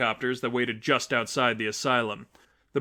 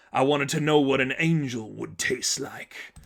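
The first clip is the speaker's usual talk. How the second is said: Killer Croc. Acted.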